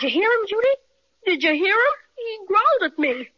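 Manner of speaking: frightened. Acted. Boy frightened by growling bear.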